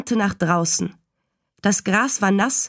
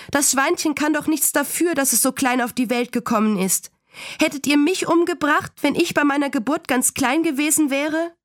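put-on high-pitched, pleading indignation of a child; aufgebrachtes Schreien; 7 semitones higher than usual. A narrator's reading. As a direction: argue like an upset girl, without shouting. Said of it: "schrie Fern". (kindlich empört, mit hoher Stimme)

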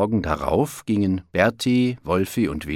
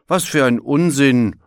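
raised, emphatic indignant protest; grumbling; 6 semitones higher, 6 dB louder than usual. A narrator's reading. Bear dismissing the wolves' claim, grumbling. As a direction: brush it off crossly. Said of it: "brummte Berti".

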